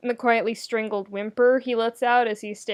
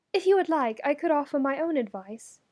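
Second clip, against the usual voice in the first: higher, polite royal voice; Allura, gracious; 5 semitones higher than usual. Acted. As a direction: offer with regal kindness. Allura offers help.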